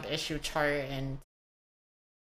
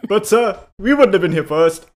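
timid protesting native; 3 semitones higher, 14 dB louder than usual. Acted. Meek native objecting to colonizer.

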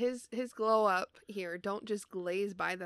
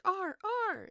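mock frantic call; 13 semitones higher, 5 dB louder than usual. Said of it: "is like".

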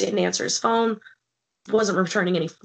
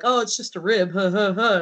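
mock laughing it off. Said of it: "kinda laughed off".

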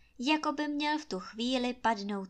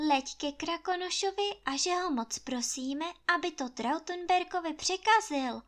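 higher, earnest begging; pleading; 7 semitones higher than usual. A narrator's reading. Anče begging the jay to fetch Krakonoš, pleading. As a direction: plead with the bird sincerely. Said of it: "prosí Anče".

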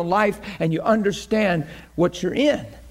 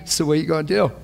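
God's voice; much faster than usual. Retold or imitated. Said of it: "He was always saying to me".

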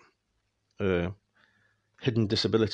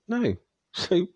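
high, louder laughing outburst; laughing shout; 11 semitones higher, 4 dB louder than usual. Real, not acted. Ranting at lads about masks, a laughing shout. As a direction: burst out half laughing, half yelling.

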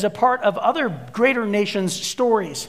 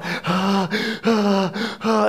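gasping groans; much slower than usual. Retold or imitated. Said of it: "and I'm on my knees, and I'm going".

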